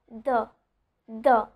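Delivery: isolated "the", th fully voiced; short low-key "the" as a sound demo. Shown as a demonstration. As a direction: say "the" alone with a voiced th. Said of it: "the other one is the voiced one".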